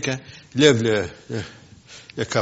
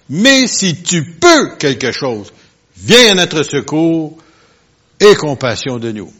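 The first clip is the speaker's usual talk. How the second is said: slow, drawn-out plea for help; slow pleading plea; 3 semitones higher, 7 dB louder, slower than usual. Shown as a demonstration. Preacher reading the father's plea to Jesus, slow and pleading. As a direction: beg slowly, stretching each word. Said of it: "écoutez bien ça".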